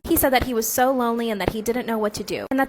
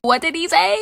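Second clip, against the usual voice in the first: shocked question; 7 semitones higher, 6 dB louder than usual. Real, not acted. Friend reacts to racist remark.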